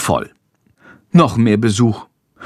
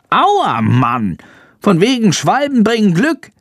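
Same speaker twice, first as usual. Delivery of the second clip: annoyed bat voice; 10 semitones higher than usual. A narrator's reading. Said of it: "zischt Chandor".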